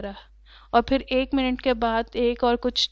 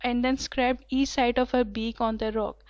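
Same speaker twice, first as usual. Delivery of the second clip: slow reading; much slower than usual. A narrator's reading. Rereads the sentence slowly.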